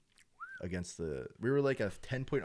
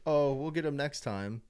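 lightly voiced mock complacent fan, higher; breezy mock shrug; mock calm fan; 7 semitones higher, 5 dB louder than usual. Fan imitating an easygoing Eagles fan, mock casual. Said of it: "we're not gonna sit there and be like".

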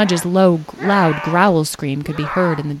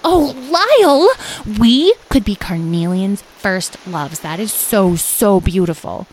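gushing Carnelian; 3 semitones higher, 3 dB louder than usual. Acted. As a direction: gush dreamily with long, lingering words.

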